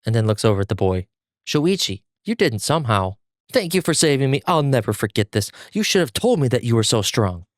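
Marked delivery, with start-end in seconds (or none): 1.4-7.4 grateful. Acted. Zenitsu thanking boy loudly.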